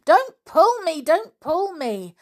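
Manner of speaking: put-on high, loud alarmed boy's call. A narrator's reading. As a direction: call down urgently from a branch. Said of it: "called the boy on the bough above".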